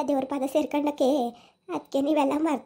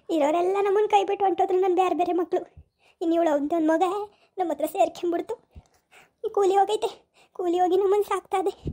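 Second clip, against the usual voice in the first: acted crying complaint; tearful lament; 2 semitones higher than usual. Old mother telling guests her children abandoned her, tearfully. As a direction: lament through mild tears, breaking toward sobs. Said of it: "ಸುಮ್ನಿರವ, ಅಳ್ಬೇಡಿ".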